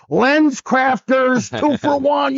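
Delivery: booming high mock heckle, slow and drawn out; heckling the ref. Fan in the stands heckling the referee over a bad call, booming mock yell. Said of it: "I have a voice that would hit the whole gym".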